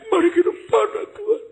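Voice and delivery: high, loud mock altar call; mock pumped-up preacher. Preacher mocking a worship leader, hammed-up high altar call. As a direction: ham up a preacher whipping up the crowd.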